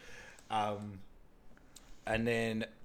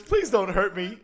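mock pleading; 9 semitones higher, 9 dB louder, slower than usual. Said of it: "And he goes".

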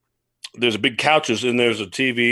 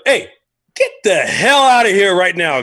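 raised, higher-pitched mock outburst; retold angry order; 7 semitones higher, 4 dB louder than usual. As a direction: throw them out of the room.

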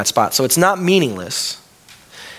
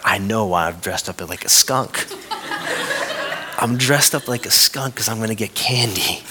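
laughing; 2 semitones lower, 3 dB quieter than usual. Retold or imitated. Daughter's thought voiced, laughing.

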